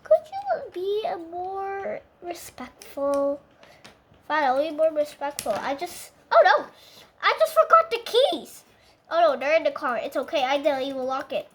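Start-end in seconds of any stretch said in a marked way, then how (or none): 0.0-3.4 scolding puppet. Pretend. 6.3-8.6 high, loud panicked squeal. Pretend. Puppet panicking to its friend about the forgotten keys, high loud squeal.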